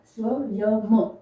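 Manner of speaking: स्वयं drawn out slowly, syllable by syllable; slow demo word. Shown as a demonstration. Teacher showing students how to say स्वयं, slowly. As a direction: sound out स्वयं slowly with a clear final म. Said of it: "इस तरह से हम इसको लिख कर देख सकते हैं".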